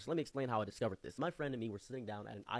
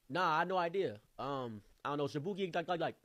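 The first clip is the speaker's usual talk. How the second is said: higher mock street voice; imitated rowdy young man; 4 semitones higher, 4 dB louder than usual. Rowdy stranger guessing at a quiz, higher mock voice. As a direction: fumble for an answer as a rowdy local. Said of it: "the hood rats that he called him".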